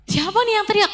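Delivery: high, puzzled question; a surprised who said that; startled. Retold or imitated. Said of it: "K P langsung shock".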